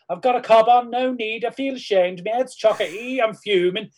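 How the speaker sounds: high, loud, broad Scouse accent. Shown as a demonstration. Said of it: "learn how to do a Scouse accent".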